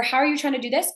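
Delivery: high, rising question full of doubt; upspeak. Shown as a demonstration. Coach mimics clients on sales calls, with upspeak. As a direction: push the ending up high. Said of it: "go up like that at the end".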